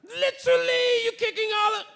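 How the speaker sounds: very high, loud mock British; badly faked British yelling; bad British accent. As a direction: stretch it out in hammed-up British. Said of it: "I don't do a good British accent".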